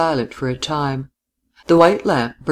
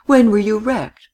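rising, louder plea; pleading; 8 semitones higher, 4 dB louder than usual. A narrator's reading. Man pleading with the woman he loves. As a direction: beg her to tell him. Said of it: "he pleaded".

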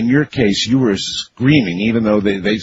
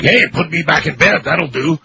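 higher-pitched pretend reply; half-playful imagined protest, pitched up; mock plea; 6 semitones higher than usual. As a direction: lightly act out a demand in a raised pitch. Host acts out a suggested response.

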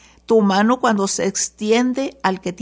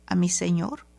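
whispered plea; susurro; 4 semitones lower, 5 dB quieter than usual. Acted. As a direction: breathe it out as a whisper. Woman pleads to the prophet. (súplica susurrada)

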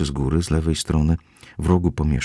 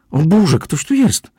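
dużo wyższy, głośniejszy okrzyk, przeciągnięty; przestraszony wrzask; 12 semitones higher, 6 dB louder, slower than usual. A narrator's reading. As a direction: krzyknij wysoko, jakby przestraszona nagłym odkryciem. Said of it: "wrzasnęła". (przerażony okrzyk)

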